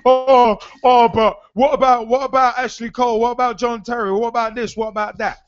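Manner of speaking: mock the complainers, nagging and fading; mock whining. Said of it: "bitching and moaning".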